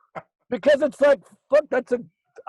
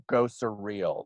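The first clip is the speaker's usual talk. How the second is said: mock preacher; 8 semitones lower, 4 dB quieter, slower than usual.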